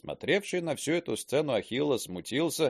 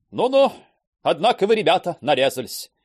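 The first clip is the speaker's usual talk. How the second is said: high, louder, amused; cheerful exclaim; 6 semitones higher, 6 dB louder than usual. A narrator's reading. Bezyukin amused at the drunk pair, cheerful. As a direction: greet them jovially. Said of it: "весело проговорил".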